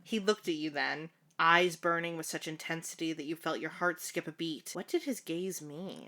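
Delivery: measured fanfiction read-aloud; story narration. A narrator's reading. Narrator telling the housekeeper's story, measured read-aloud. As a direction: narrate it evenly, like an audiobook.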